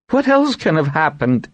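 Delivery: startled by dragons arriving, cry out worried; cry of alarm. A narrator's reading. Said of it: "she cried in alarm".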